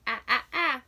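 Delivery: repeated short "Ah, ah, ah" as in ran; short a sound. Shown as a demonstration. Teacher sounding out "Ah" in ran for kids. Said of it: "vowel do you hear".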